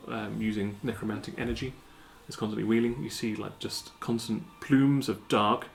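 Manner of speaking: game master scene setting; scene narration. Acted. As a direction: paint the scene for the players. Game master describes the city.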